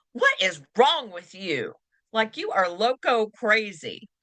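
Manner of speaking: scornful. Shown as a demonstration.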